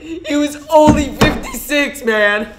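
very high, squealing laughing voice; hammed-up high-pitched laughter. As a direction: wail it high and loud through laughter. Mock audio from the crime.

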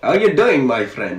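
lightly accented cartoon king; King Julian. Cartoon king greeting his friend, lightly voiced. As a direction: greet in a mild cartoon-king accent, lifting then dropping. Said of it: "my name is King Julian".

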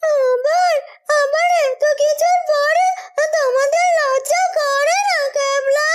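scornful disbelief. Acted. Girl scolds Kabla for reopening his stall, scornful. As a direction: shame him with scorn.

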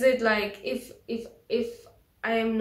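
speaking through fingers; muffled behind hand; hand over mouth. Real, not acted. Seen 1: Fingers cover mouth until about 1.3s, then hand drops.

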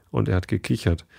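ordinary delivery

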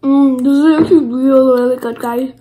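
chewing between words; talking while chewing. Real, not acted. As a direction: mouth partly full. Seen 2: Lips pursed and working between words; food just eaten, no new bite.

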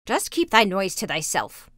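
lightly voiced scolding old woman; mildly cross crone; old witch. A narrator's reading. Witch silences the lamenting Gretel, lightly voiced scolding. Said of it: "said the old woman".

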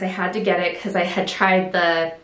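a little winded, breathy pauses; out of breath. Real, not acted. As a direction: talk slightly short of breath. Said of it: "I'm a little winded too".

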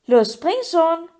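high, slow teasing goad; gloating taunt. A narrator's reading. Mermaid dares Harry to jump, gloating taunt. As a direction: draw it out to egg him on. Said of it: "gickelte sie hämisch".

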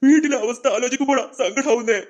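a touch of tears in the voice; tearful. Acted. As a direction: confide the sorrow, holding back crying. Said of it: "അപ്പൂപ്പ കരയില്ലേ".

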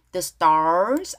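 "stars" with an R before the S; R sound put in. Shown as a demonstration. Teacher models the lyric for learners, R sounded. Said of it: "R 발음 넣어주고요".

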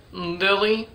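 slow, careful practice sentence; laboured, drawn-out practice delivery; working through it. Shown as a demonstration. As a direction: take each hard word slowly and deliberately. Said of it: "still a rough word for me".

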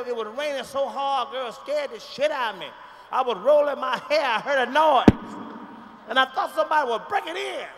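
storytelling relative, getting worked up. Acted. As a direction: auntie building the drama. Relative retells it ever louder.

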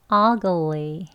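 ugly with the stress on the first syllable; ugly demo. Shown as a demonstration. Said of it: "한 번 더요". (ugly 첫 음절 강세)

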